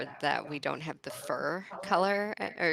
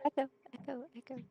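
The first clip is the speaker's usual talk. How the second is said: calling out for an echo, much higher; echoey God voice; 10 semitones higher, 4 dB quieter, much faster than usual. Pretend. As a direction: play at echoing like a god. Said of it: "you're not very echoey this time".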